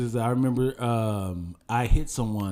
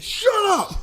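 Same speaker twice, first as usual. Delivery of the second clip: put-on high, sharp snap at the kid; mock snap; 12 semitones higher than usual. Dad snapping at his daughter in the car, mock anger. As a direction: cut the daughter off, mock angry.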